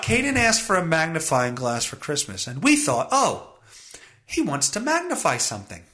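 animated, incredulous read of the quote; incredulous rereading. Shown as a demonstration. Host rereads the parents' thought to listeners, incredulous. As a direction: read it back as if it is absurd.

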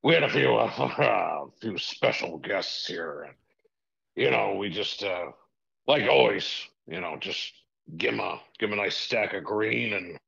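lightly voiced sleazy tycoon; a hint of a shady rich boss chuckling; Vince McMahon impression. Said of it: "Vinnie Mac himself".

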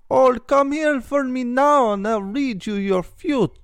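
high, loud mystic fortune-teller voice; mock psychic. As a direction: lure them in like a carnival psychic. Imitating a psychic inviting customers.

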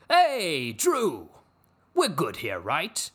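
loud theatrical call sliding down into a check; hammed-up patriarch impression; Logan Roy. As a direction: hail him like an overbearing tycoon. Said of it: "he went full Logan Roy".

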